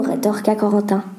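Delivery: ordinary delivery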